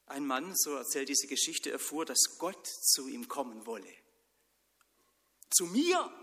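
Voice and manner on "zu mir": high, loud, thrilled cry; excited shout. Acted. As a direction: shout it out in amazement. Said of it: "schrie er". (Mann schreit begeistert, hoch und laut)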